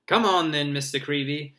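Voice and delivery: loud, bright beaming voice. Acted. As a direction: cheer him on grandly. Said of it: "beaming at Colin".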